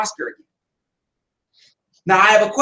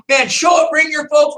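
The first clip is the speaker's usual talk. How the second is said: louder, higher rallying call; hyped send-off; 5 semitones higher, 3 dB louder than usual. Retold or imitated. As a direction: pump him up at the door. Sends recruit off hyped.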